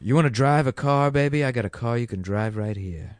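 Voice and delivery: lightly voiced creepy Hollywood actor; Kevin Spacey impression. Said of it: "That's Kevin Spacey".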